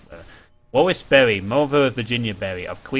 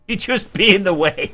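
higher, incredulous mock of be; mocking repeat; 6 semitones higher than usual. Gamer mocking the asylum telegram, pitched-up scoff.

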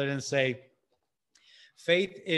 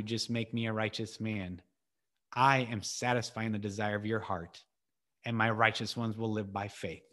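gentle voice of God; 5 semitones lower, 4 dB quieter than usual. Retold or imitated. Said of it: "his loving voice saying".

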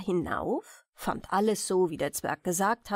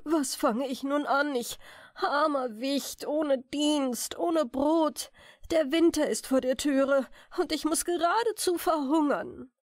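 raised, pleading lament; 4 semitones higher than usual. Acted. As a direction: wail over lost work and bread. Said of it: "vor Schmerz warf er sich ins Gras und klagte".

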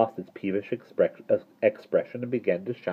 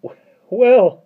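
high, slow, loud gloom; hesitant, drawn-out gloomy thanks; 13 semitones higher, 10 dB louder, slower than usual. A narrator's reading. Mister Turvey thanking the parrot, gloomy. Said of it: "said Mister Turvey in his gloomy voice".

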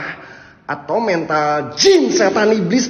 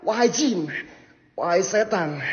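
hushed invocation; 10 dB quieter than usual. Acted. Ghost hunter calling the jinn and devils, hushed. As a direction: drop to a hush for the spirits.

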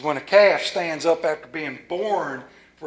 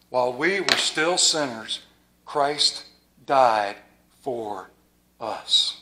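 dropping to near silence on the last words; softly fading scripture; hushed; 6 semitones lower, 5 dB quieter, slower than usual. Real, not acted. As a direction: let it fade into a hush. Quiet scripture climax.

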